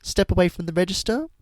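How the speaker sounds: lightly voiced officious Karen; mock Karen voice. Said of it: "You just know that she's like".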